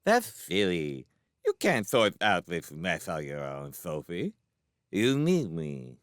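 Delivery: put-on childish lisp, unhurried; lisping little boy. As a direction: reason with her in a lisping child voice. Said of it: "do you have to lisp like that".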